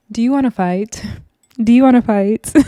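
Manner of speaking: mock-classy, carefully set-apart question; classy challenge. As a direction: imitate a very classy invitation to brawl. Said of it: "in the most classiest way ever".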